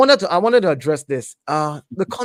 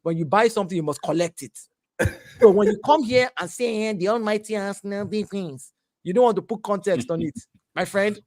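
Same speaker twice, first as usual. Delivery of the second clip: Yoruba accent. Real, not acted. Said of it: "The Yoruba accent is coming out".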